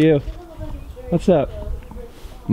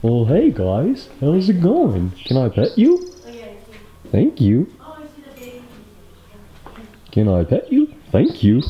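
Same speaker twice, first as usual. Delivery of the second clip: horse impression voice; 4 semitones higher than usual. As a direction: greet them the way a horse would talk. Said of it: "That's my horse impression voice".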